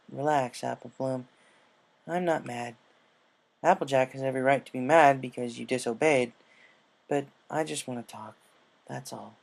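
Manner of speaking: reassuring. Acted. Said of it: "Rainbow reassured her".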